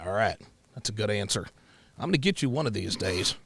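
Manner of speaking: low, lightly drawled Southern date; a hint of folksy suitor; white guy from Mississippi. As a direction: answer softly as a country good old boy. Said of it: "the way I talk".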